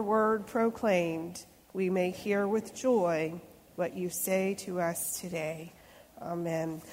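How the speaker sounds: calm, reverent opening prayer. Acted. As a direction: pray gently for the listeners.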